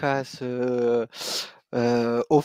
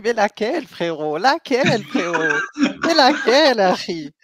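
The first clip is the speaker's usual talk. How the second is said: insistent questioning; 8 semitones higher, 7 dB louder, slower than usual. Real, not acted. Pressing the question, rising heat.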